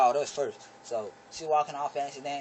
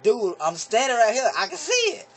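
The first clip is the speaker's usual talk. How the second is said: annoyed; 7 semitones higher, 5 dB louder than usual. Retold or imitated. Annoyed at repeated question.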